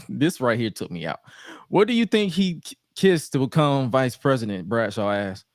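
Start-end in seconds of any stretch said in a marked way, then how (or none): 1.7-4.7 high teasing question; mocking taunt. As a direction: taunt with a raised voice. Bradshaw taunting.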